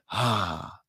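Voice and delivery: a mild imitated kid's sigh; imitating a child's sigh. Imitating her nephew while she reads to him, a soft sigh. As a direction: lightly copy a bored-sounding little sigh. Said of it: "sigh like this".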